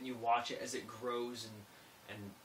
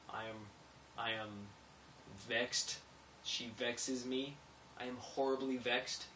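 quoting Commodus; 4 dB quieter than usual. Retold or imitated. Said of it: "I am quoting Commodus".

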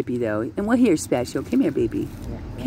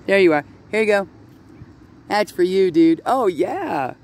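high, lively voice to a duck; pet talk; 7 semitones higher, 3 dB louder than usual. Real, not acted. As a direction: cheer the duck on in a raised pitch. Handing bread to a duck.

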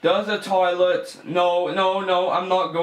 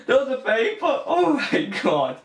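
sudden high yelp with a laugh, spotting the paper; startled squeal of discovery; surprised cry; 8 semitones higher than usual. Real, not acted. Gamer spotting a paper in the dark woods, surprised yelp. Spots the paper in horror game.

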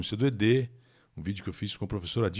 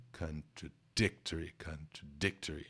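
contradictory with the stress on dic; 5 semitones lower, 9 dB quieter than usual. Shown as a demonstration. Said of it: "A nossa sílaba tônica é contraditório ... Em inglês é o dic".

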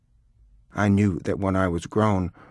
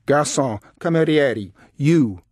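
boisterous calls, high and loud; loud, imperious summons; shouted hail; 6 semitones higher, 6 dB louder, slower than usual. A narrator's reading. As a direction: call out each word to summon a waiter. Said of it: "he shouted".

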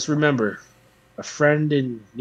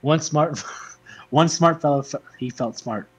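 fast twister; 3 semitones higher, 4 dB louder than usual. Shown as a demonstration. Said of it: "As fast as you can".

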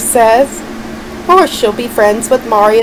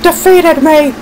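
angry villain rant; 7 semitones higher than usual. Acted. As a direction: rage about losing like a sore villain. Villain defeated, ranting.

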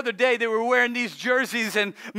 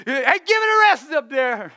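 mock intimidating; 5 semitones higher, 4 dB louder than usual. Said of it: "trying to sound intimidating".

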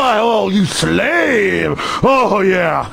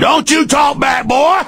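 higher shouted rebuke; snapping cop; 4 semitones higher than usual. Retold or imitated. Host in cop voice silencing the caller, mock shout. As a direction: cut the caller off. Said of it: "that's an imitation of 'em".

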